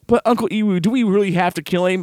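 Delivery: a hint of a pleading kid; Icho. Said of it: "Icho's like".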